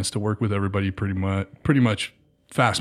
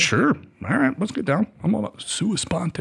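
eager yes; 9 semitones higher than usual. Retold or imitated. Retold eager agreement.

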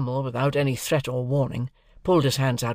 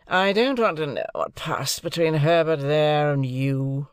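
slower, lightly growled refusal; a touch of growl; 3 semitones higher, 3 dB louder than usual. Acted. Drummle to Pip, mild growl. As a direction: grumble it back without interest. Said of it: "growled Drummle".

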